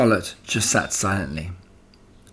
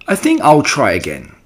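cheerfully; 5 semitones higher, 4 dB louder than usual. Acted. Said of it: "said Wilbur cheerfully".

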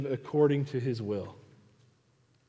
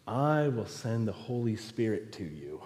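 soft, quietly reassuring promise; lightly voiced, ease the volume down; Jesus; 3 semitones lower, 6 dB quieter than usual. Jesus answering the ill-equipped believer, soft assurance. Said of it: "And Jesus says".

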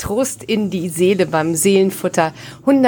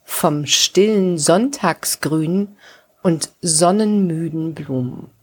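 slow, measured episode intro; measured title read; podcast title announcement. Acted. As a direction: announce the episode unhurriedly, with spaced phrases.

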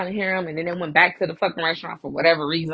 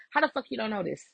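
imitated exasperated disbelief; mildly heated, incredulous retelling; mad. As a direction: retell a friend's annoyed challenge. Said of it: "but she mad because she like".

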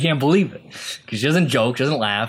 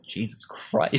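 softer mutter under the breath; muttered Jesus Christ; 6 dB quieter, slower than usual. Retold or imitated. Interviewer reacting to her blunt answer, muttered under his breath. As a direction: mutter it half to yourself in disbelief. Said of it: "he mutters under his breath".

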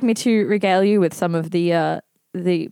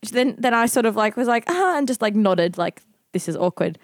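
put-on old lady voice; 4 semitones higher than usual. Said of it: "imitating an old lady".

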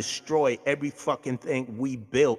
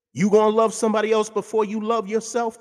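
heated outburst; 6 semitones higher, 5 dB louder than usual. Real, not acted. Angry rhetorical rant.

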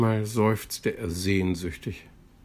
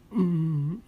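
thoughtful hum; 9 semitones higher than usual. A narrator's reading. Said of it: "überlegte Plitsch".

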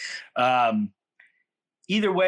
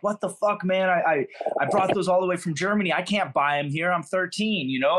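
imitating an irritated teen, a bit higher and quicker; vexed; 5 semitones higher than usual. German exchange kid scolds him over the tossed cigarette, mock irritated. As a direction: retell the German kid's annoyed outburst. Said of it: "he's fucking vexed".

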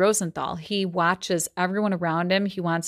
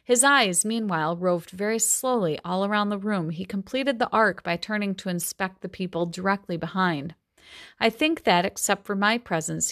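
measured novel reading voice; story reading. A narrator's reading. Teacher reading a Gatsby passage aloud, steady storytelling. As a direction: read the passage to the class.

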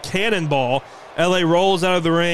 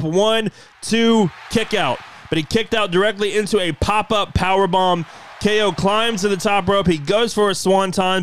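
wrestling commentator; 3 semitones higher than usual. Acted. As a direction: call the match action with rising energy. Live play-by-play call.

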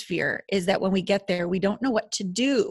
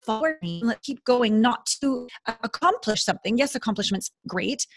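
a gently voiced loving God cheering you on; loving divine voice; 2 semitones higher than usual. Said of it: "that's how the divine would talk".

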